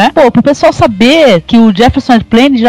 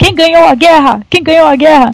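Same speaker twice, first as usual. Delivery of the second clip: mock drunken onstage-style call-out; 5 semitones higher than usual. Telling a story about a performer yelling on stage in Germany, retelling a yell. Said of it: "berrando lá no palco".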